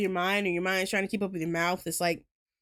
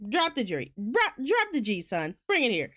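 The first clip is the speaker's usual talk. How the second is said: Southern accent. Shown as a demonstration. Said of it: "we dropped the G down here".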